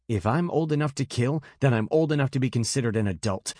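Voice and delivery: put-on a fast, clipped teen retort, mildly heated; mild angry snap; snapped. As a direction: snap it back at her, a touch defiant. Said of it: "Bast snapped".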